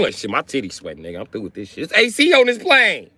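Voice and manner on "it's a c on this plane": mock excitement. Excited about plane AC.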